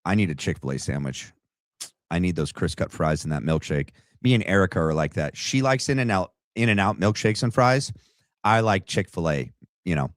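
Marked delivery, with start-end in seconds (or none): 0.0-3.9 lower, quieter and fast mock voice; dismissive lower mumble of an imagined killer; host mocks the suspect's calm food cravings, lower and quiet; mocking Tyler. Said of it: "he's like".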